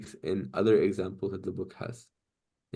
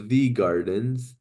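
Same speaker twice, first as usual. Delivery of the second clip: "the gardens" slow, leaning on "the"; stress on the; much slower than usual. Shown as a demonstration. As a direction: drag out "the" to mark the error. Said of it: "it's not supposed to have a "the".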